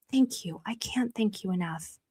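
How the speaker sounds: a soft whisper of thanks. Real, not acted. Streamer whispering heartfelt thanks to viewers.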